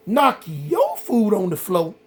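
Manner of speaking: slow, disbelieving echo of the accusation; incredulous. Retold or imitated. To the inmate, slowly repeating his complaint in disbelief. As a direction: repeat it back slowly, can't believe it.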